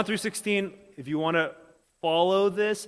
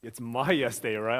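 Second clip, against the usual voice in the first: laughing; 4 semitones lower than usual. Retold or imitated. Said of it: "She's like".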